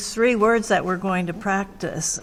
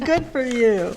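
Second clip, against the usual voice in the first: delighted praise; 5 semitones higher, 4 dB louder than usual. Real, not acted. Teacher praising the child.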